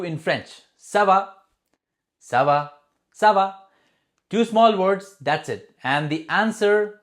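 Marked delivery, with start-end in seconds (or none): 0.8-3.7 ça va with a questioning lift, sa-VA; teacher models ça va as a question. Shown as a demonstration. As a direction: ask ça va lightly, like a friend. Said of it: "you ask".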